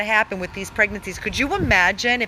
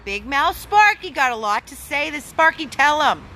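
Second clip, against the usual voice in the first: higher-pitched, playful lift; playful dog introduction; 5 semitones higher, 3 dB louder than usual. Real, not acted. Rescuer egging on Big Mouth Sparky, playfully high. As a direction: show off the dog in a raised, lively voice.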